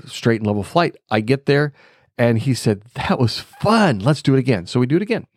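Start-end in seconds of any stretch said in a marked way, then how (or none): 3.0-4.7 playful, higher on the first words; retold cheerful instructor. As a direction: imitate an upbeat instructor, stretching "fun".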